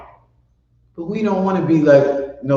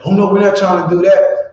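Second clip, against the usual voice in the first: mock police reply; 7 semitones higher, 5 dB louder than usual. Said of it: "I told the police".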